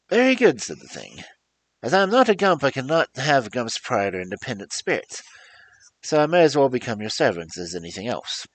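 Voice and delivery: very high, loud squeaky voice of a huge beast; squeaky creature voice. Acted. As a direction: squeak like a tiny thing in a giant body. The Gump speaks again.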